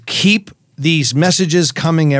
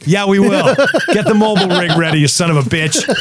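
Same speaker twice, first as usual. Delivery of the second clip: laughing; 3 semitones higher than usual. Real, not acted. Teasing producer, laughing.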